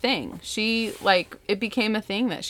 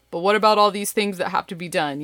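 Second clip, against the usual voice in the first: fretful checklist self; 4 dB louder, faster than usual. Retold or imitated. Herself as checklist worrier.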